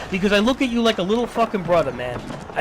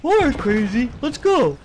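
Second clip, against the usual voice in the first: mock eager agreement; 4 semitones higher, 4 dB louder than usual. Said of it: "It's like".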